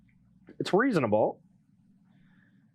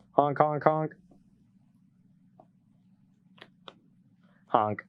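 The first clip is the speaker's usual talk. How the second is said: goose honk; 3 semitones lower, slower than usual. Pretend. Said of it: "making the honk noise when you play a goose".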